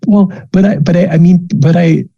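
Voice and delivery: a mom fighting back tears, tripping over words; flustered mom. Acted. Mother at the school gate, choked up and stammering high.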